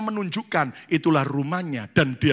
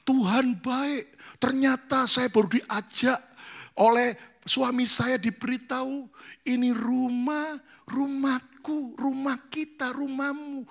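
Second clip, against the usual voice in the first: much higher, slow and softening, full of wonder; delighted bride; 8 semitones higher than usual. Retold or imitated. Bride telling pastor about the house, high and amazed. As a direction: savor each word of the happy news. Bride retells husband's gift.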